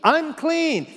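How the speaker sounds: high, loud cry; ringing high-pitched yell; Isaiah yelling out. Acted. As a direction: cry it out like a prophet confronted by God's glory. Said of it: "he yells out".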